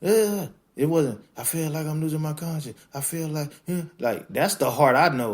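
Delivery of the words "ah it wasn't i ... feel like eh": higher, louder mock-anguished rapper voice; mocking a rapper. Mocking the rapper's album lament, higher hammed-up anguish. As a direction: parody the rapper's tortured lament. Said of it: "And he's like".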